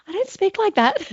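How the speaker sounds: laughing, high-pitched protest; mock protest. Mother amused at daughter mimicking her, mock protest. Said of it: "puts on an accent. I'm like".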